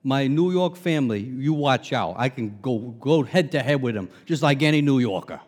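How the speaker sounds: slipping back into a New York accent. Shown as a demonstration. Pastor boasting he can match his family, New York accent. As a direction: put on your old Long Island New Yorker accent. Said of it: "I can put it on".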